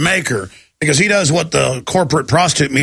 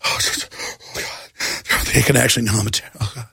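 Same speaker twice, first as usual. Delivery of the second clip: panicked confession; 6 semitones lower, 5 dB quieter than usual. Retold or imitated. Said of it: "he started going".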